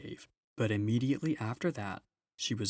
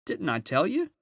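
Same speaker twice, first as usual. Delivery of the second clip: high, loud joyful calling; a beaver shouting the good news; excited shout; 7 semitones higher, 6 dB louder than usual. A narrator's reading. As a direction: call it out, much higher and louder. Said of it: "answered Mister Beaver".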